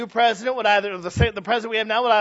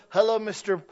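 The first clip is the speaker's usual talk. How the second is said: mock polite clay-shaper. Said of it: "you don't sit there and go".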